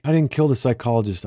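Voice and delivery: shouting back a denial; shouted. Acted. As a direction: call it out loud across the water. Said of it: "I shouted".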